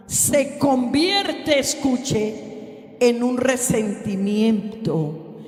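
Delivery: slow, stretched-out pulpit delivery; weighty, measured sermon cadence; deliberate preaching. Real, not acted. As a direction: draw out each key word for the congregation. Preaches key point slowly.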